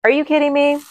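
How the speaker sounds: high, loud disbelieving cry; astonished cry. Real, not acted. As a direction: shout it in amazed disbelief. Third Joe coincidence revealed.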